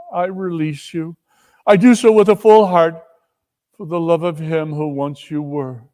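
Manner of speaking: a hint of sorrowful young woman; sad Belle releasing him. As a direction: let him go with a heavy heart.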